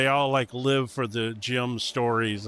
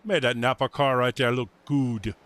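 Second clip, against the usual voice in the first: put-on Cajun accent, pitched up and sing-song. Praising the Napa car in a Cajun accent. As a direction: lay on a thick Cajun accent. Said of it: "then I've got my Cajun voice".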